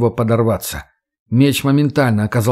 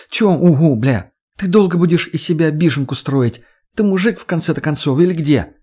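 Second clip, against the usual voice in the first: exasperated scolding; 4 semitones higher than usual. Acted. Redhead scolding Max.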